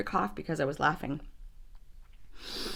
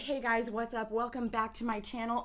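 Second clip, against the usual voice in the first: retaken intro; 15 dB quieter than usual. Pretend.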